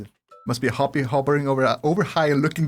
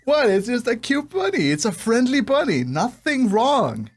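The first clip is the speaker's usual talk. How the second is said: mock innocence; 5 semitones higher than usual. Mock-innocent defence of bunny.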